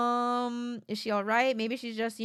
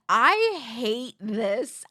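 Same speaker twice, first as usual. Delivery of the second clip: dramatic dread; 4 dB louder, much slower than usual. Real, not acted. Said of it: "I'm very nervous".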